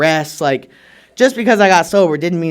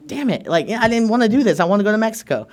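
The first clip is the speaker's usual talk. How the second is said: higher-pitched grumble, playing put out; mock reluctant complaint; 4 semitones higher than usual. Retelling losing the Mexico trip to amends in Texas, grumbling. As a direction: act out a mild, higher-voiced protest. Retold grumbling at sponsor's unwelcome suggestion.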